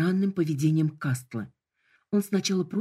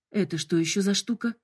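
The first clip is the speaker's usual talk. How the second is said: blurted alarm; 3 semitones higher than usual. Acted. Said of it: "выпалила я".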